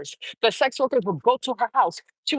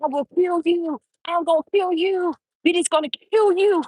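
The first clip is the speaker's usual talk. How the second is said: mock threat; 5 semitones higher than usual. A singer threatening her childhood friend, mock angry. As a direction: throw the threat like a hammed-up singer. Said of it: "she made death threat to that boy".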